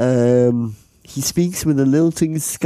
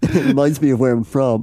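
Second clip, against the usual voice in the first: put-on Australian accent. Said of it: "reference point for an Australian accent".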